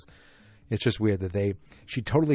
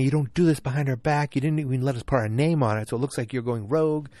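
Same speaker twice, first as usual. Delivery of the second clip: mild mock complaint; 5 semitones higher than usual. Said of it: "they're complaining".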